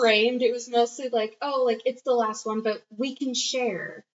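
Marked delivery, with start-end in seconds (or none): 1.4-4.1 gently offering, slowing and softening at the end; lightly acted kind offer; tender. Man offering to share the last beer, tender. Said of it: "him being tender, really".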